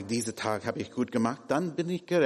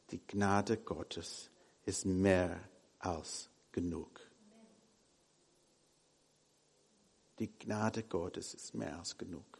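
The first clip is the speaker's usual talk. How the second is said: hushed emphasis; 4 semitones lower, 8 dB quieter than usual. Acted. Preacher repeats key line softly.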